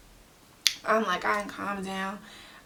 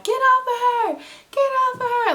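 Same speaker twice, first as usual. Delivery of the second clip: retold yelling; 7 dB louder than usual. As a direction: yell it across the street to break up the fight. Neighbors yelling during the fight.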